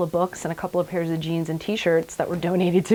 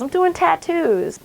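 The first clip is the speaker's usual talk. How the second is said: put-on Revere Boston accent; 11 semitones higher, 5 dB louder, slower than usual. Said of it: "thick, sort of Revere Boston accent".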